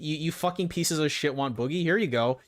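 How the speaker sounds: heated surrender to pestering viewers; exasperated outburst. Real, not acted. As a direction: give in angrily, then yell the last name.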